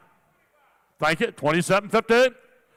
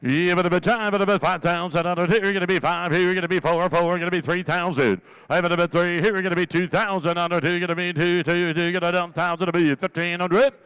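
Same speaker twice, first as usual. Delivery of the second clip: rapid rhythmic auction chant; auctioneer. Acted. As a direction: rattle off the bids in a steady chant. Auctioneer calling bids.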